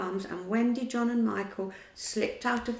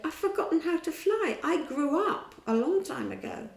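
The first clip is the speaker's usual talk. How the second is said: sad little laugh; 8 semitones higher, 4 dB louder than usual. Acted. Wendy sad about growing up.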